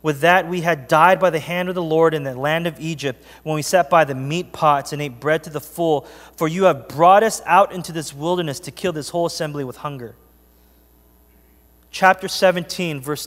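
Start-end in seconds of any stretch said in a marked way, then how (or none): 0.0-10.1 scripture reading. Acted. Reading Exodus aloud to church.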